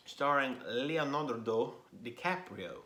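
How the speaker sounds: Leonardo DiCaprio rolled out with a light mock Italian lilt; a quick hammed-up Italian pronunciation of a movie star's name; mock Italian flourish. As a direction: give the name a playful Italian-style flair. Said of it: "I don't know why I said it like that. It's just an Italian sounding name".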